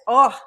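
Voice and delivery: a real open-mouthed yawn with voiced sigh; drawn-out yawning oh. Real, not acted. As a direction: let a real yawn out through the word. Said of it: "That's a great yawn".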